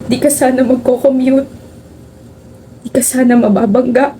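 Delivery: tearful, halting grief at a friend's coffin; crying. Acted. Grazel grieves her best friend in her sleep, tearful. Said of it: "Grazel, you're crying".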